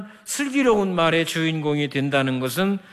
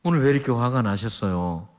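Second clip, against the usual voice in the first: gentle junior's words; 6 semitones lower than usual. Retold or imitated. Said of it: "또 화를 냈는데".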